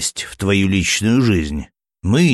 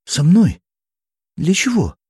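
put-on much higher startled girl's voice; taken aback; 11 semitones higher, 3 dB louder than usual. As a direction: caught off guard, pitch jumps up. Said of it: "опешила Эри". (ошеломлённо, высоким девичьим голосом)

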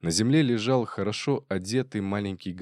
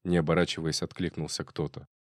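usual speaking voice

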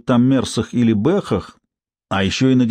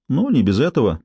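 indifferent; 2 semitones higher than usual. Acted. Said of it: "равнодушно подтвердила".

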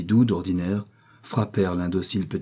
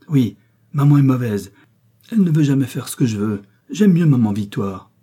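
put-on loud, higher-pitched childish tantrum; child beside himself; 5 semitones higher, 6 dB louder than usual. A narrator's reading. Boy rejecting his mother for Victoire, angry outburst. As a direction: lash out like a furious little boy. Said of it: "dit Jean tout à fait hors de lui".

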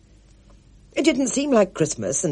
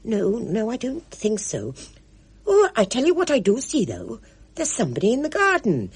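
put-on higher, fluttery old lady; eager Pinky; 7 semitones higher than usual. A narrator's reading. Pinky fusses so Spud need not move, fluttery. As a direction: bustle about, keen to help.

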